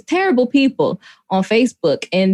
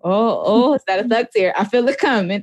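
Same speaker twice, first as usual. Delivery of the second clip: mock tearful. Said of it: "and I said".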